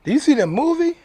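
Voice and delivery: loud, high repeated question. Acted. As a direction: call it out again, pressing them. Repeats challenge after long pause.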